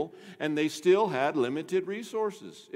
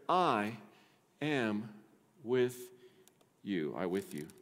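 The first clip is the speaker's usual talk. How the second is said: tender promise; 7 semitones lower, 6 dB quieter, slower than usual. Acted. God's promise, spoken tenderly.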